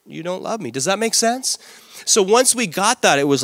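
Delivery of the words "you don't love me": wife's hurt inner voice. Retold or imitated. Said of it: "In her mind".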